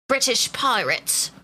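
slow, drawn-out British pirate accent. Shown as a demonstration. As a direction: try saying it like a British pirate. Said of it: "What's a British pirate sound like?".

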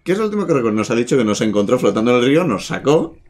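character voice. Acted. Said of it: "me ha distraído muchísimo la voz".

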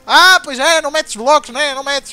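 loud, laughing mockery, pitch jumping up; sarcastic taunt. Real, not acted. Gamer mocking an opponent who won't place blocks, sarcastic. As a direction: rub it in with a cackle.

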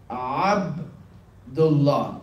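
Abdullah very slow, Ain from the throat, double l held; drawn-out Ain. Shown as a demonstration. Teacher drawing out Abdullah for students. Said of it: "'cause it's Ain".

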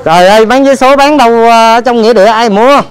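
loud, high-pitched disbelief; incredulous exclamation. Real, not acted. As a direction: exclaim it loudly, amazed and questioning. Incredulous at selling tickets in graveyard.

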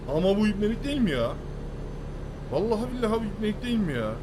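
angry rhetorical outburst at the road; real outrage. Real, not acted. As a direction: rage at the unfair situation. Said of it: "Biraz atarlandık".

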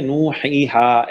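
"नू, ही, हा" with each vowel held just two counts; correct two-count madd. Shown as a demonstration. Teacher showing the student the right length, measured held vowels. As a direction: keep "नू, ही, हा" long but not dragged. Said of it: "ऐसे".

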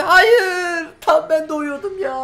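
high, loud mock-crying no; real whimper of frustration; whiny wail. Real, not acted. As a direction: cry out in half-joking despair. Teammate dies just before respawn.

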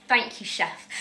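subdued mock politeness; meek reply. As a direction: retreat quietly, acting humbled. Meek reply after being yelled at.

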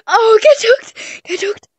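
drawn-out high gloating yell; gloating taunt. Real, not acted. Taunting the other player, high drawn-out gloat. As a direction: crow over the tag. Gloating after tagging in game.

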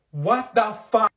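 slow, loud drawn-out outrage; exasperated yell. Acted. Girl furious that her friend looked, slow loud outburst. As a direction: throw the words at her, disbelieving. Friend turns and looks anyway.

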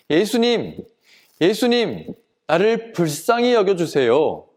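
restrained cry for help; mild acted shout. Blind man calling toward where Jesus might be, mild shout. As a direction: call out pleadingly without full force. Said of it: "고함을 쳤어요".

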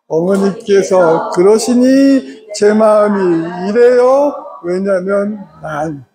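slow, gentle formula to a mother-in-law; slow model phrasing. Shown as a demonstration. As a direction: lay it out slowly and politely. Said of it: "시작".

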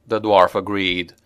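plain reading voice

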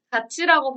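같이 said as 가치, with a ch sound; t turned to ch in 같이; palatalized 같이. Shown as a demonstration. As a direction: say 같이 as "ga-chi". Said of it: "발음을 하죠".

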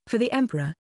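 high, rallying war cry; battle cry. A narrator's reading. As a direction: shout it like soldiers charging. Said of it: "Their battle cry echoed".

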